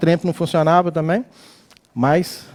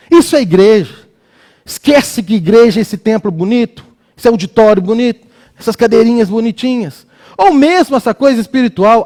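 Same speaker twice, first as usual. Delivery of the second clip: raised, insistent preacher's voice; emphatic preaching; 4 semitones higher, 3 dB louder than usual. Real, not acted. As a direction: press the point on the congregation. Preaches against empty church forms.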